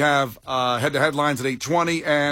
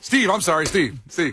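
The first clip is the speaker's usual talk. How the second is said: passive aggressive. Retold or imitated. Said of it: "Passive aggressive".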